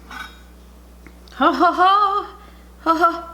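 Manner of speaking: high, loud laughter; giggly high laugh. Real, not acted. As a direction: burst out laughing. Laughing at the hot food.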